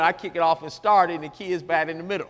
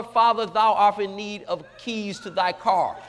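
slow, stately mock King James English; phony prayer talk; slower than usual. Child asking father for car keys, phony formality. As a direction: ask grandly, drawing it out. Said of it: "no need of being phony".

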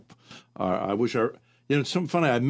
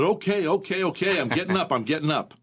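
higher, hurried okay okay, jolted awake; startled protest; 6 semitones higher than usual. Retold or imitated. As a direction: protest as if poked in the ribs. Jabbed awake, jumping up.

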